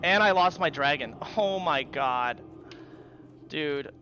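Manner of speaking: exasperated groan. Real, not acted. Gamer losing his dragon, groaning in real exasperation. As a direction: let the loss sink in slowly.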